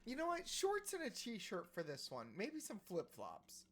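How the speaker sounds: the tailor hits back; lightly hammed-up sassy tailor. Tailor snapping back in character.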